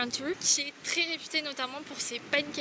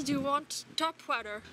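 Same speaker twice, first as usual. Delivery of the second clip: put-on Australian accent. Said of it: "la serveuse m'a dit".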